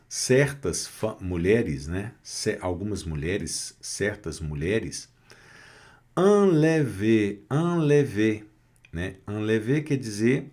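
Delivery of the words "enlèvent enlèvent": "enlèvent" slowed, its NT left unsounded; silent NT in "enlèvent". Shown as a demonstration. Teacher modelling a French verb for learners, silent NT in "enlèvent". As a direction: drop the final NT of "enlèvent". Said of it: "aqui também não pronuncia o N T".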